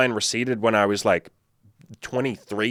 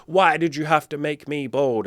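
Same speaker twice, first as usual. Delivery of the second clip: higher, mock-anguished railing at God; cursing the heavens; 6 semitones higher than usual. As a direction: rail at the universe in an acted, high-pitched protest. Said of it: "cursing the heavens and saying".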